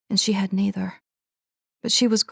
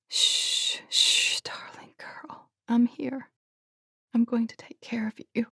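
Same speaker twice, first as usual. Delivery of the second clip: hushed whisper to a hurt horse; calm the frightened mare in a whisper; soothing whisper; 5 semitones higher, 5 dB quieter than usual. A narrator's reading.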